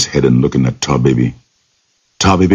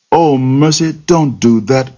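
much higher, slow mock-frightened begging; pleading cry; 10 semitones higher, slower than usual. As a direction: beg the fox, pretending terror. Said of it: "cried Doc Rabbit".

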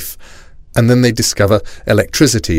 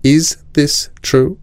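slow, higher-pitched stern question; very mad; 7 semitones higher, much slower than usual. A narrator's reading. Mother confronting her son over the swap, slow and mad. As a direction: space out each word in controlled anger. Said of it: "She only calls me young man if she's very, very mad".

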